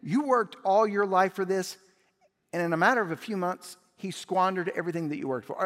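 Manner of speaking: loud, high, fast indignant rant; jealous older son ranting at his father; soapbox rant. Acted. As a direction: preach your grievance at dad. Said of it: "he's on this soapbox kick".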